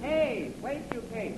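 high call to stop them. Acted. Clarence running to catch the girls, calling out. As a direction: shout after them down the street.

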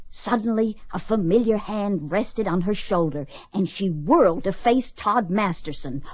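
dramatic story reading with punched key words; romance novel read-aloud. Acted. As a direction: read it like a lurid paperback romance.

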